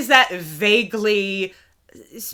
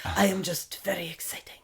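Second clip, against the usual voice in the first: Latin lover; 2 semitones lower than usual. Retold or imitated. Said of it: "vague term Latin lover".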